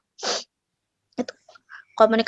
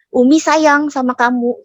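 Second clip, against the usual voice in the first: mock-angry mother, higher and slower; angry intonation; 4 semitones higher, 4 dB louder, slower than usual. Shown as a demonstration. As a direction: say loving words in a mildly angry tone. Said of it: "intonasi orang marah".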